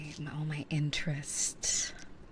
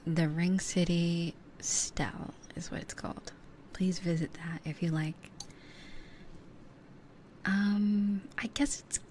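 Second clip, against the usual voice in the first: whispering. Real, not acted. ASMR whisper chat.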